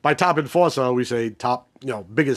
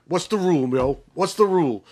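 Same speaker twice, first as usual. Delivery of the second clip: pitched-up mock demand, lightly acted; imitating Wee-Bey; 3 semitones higher than usual. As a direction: quote a crew enforcer quizzing his passenger. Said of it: "He's like".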